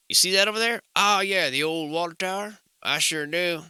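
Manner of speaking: faking familiarity with the town; mock old-timer. Shown as a demonstration. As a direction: play the veteran who knows the area. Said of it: "you simply add the old in front of it".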